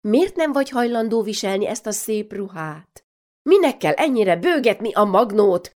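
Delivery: mother rounding on her daughter, questions piling up; scolding mother. Acted. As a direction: grill her like a fed-up mother. Mother nagging Mari.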